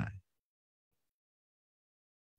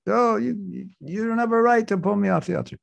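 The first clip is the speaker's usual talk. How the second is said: indignant protest; 7 semitones higher than usual. Acted. Krishna protests in acted quarrel.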